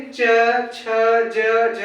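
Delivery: च छ ज झ slowly, tongue on the palate; drawn-out च छ ज झ, tongue against the palate; palatal consonant demo. Shown as a demonstration. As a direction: sound out च छ ज झ one by one. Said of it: "च छ ज पढ़ते हैं".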